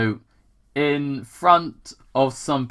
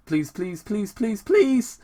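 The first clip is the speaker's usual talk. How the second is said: begging; 7 semitones higher than usual. Acted. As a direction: beg harder with each please, rising. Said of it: "is Sonic beg".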